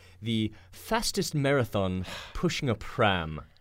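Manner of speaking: slow, drawn-out, fake put-on British accent. Reading out an official Guinness World Record title in a put-on British accent. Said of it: "Said, of course, in a British accent".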